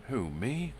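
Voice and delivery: startled high blurt. Acted. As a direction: blurt it out in shock. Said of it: "Crane blurted".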